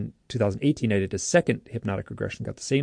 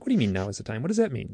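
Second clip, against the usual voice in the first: baffled questioning; much faster than usual. Retold or imitated. Abductee challenging the beings' answer, baffled. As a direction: question it in mock disbelief. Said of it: "I'm like".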